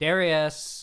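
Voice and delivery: very loud hollering yell. Narrator voices a woman calling into the shrine for someone, yelling a name. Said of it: "she'll yell inside there".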